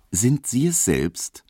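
höher und langsam, einnehmend lächelnd gefragt; herzgewinnend lächelnd. A narrator's reading. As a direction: den jungen Mann freundlich umgarnen. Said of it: "lächelte herzgewinnend". (langsame, gewinnende Frage mit Lächeln)

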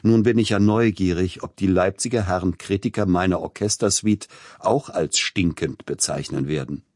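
amused teasing of the Leipzig critics; laughing. Acted. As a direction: tease the critics with a chuckle. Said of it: "sagte lachend".

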